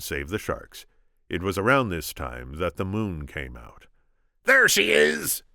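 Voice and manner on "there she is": much higher, loud shout. Acted. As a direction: yell it out across the water. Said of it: "shouted the Sicilian".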